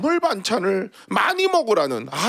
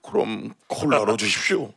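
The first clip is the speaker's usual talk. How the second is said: put-on meek old man; 7 semitones lower than usual. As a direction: give in like a scolded kid. Old man repeats order meekly.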